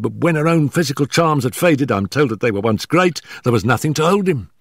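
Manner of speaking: high, hurried, stammering nervous man; gasping, out of breath. Acted. Nervous manager warning Holmes before his employer arrives, gasping and hurried. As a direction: blurt it out in short frightened bursts. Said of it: "our visitor gasped".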